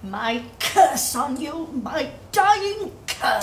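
bitter curse. Acted. Mother curses her son.

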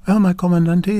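"Well, my comandante" said with new confidence; confident. Acted. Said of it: "She gathered confidence".

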